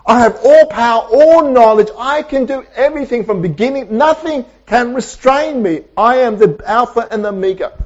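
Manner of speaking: high, emphatic divine declaration; God speaking. Acted. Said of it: "He says".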